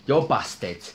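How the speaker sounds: punchy teasing "You're busted"; teasing taunt. Acted. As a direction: rub it in with a taunt. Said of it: "I had to say that".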